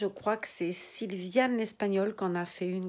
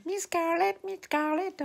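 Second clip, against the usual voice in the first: high, loud shrill cry of a frantic maid; servant crying out; 10 semitones higher, 4 dB louder, slower than usual. Retold or imitated. The little servant running after Scarlett, high, loud mock cry. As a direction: call out her mistress's name in a piercing high voice. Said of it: "servante qui crie".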